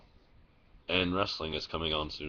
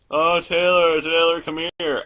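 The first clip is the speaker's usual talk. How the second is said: high, loud call across a noisy fair; mom calling out; 10 semitones higher, 10 dB louder than usual. Retold or imitated. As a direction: call out over loud music. Mom calling over loud music.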